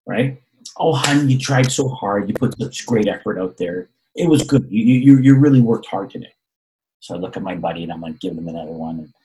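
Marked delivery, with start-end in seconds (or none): 0.8-6.3 mock reassuring mom. Mom comforting son.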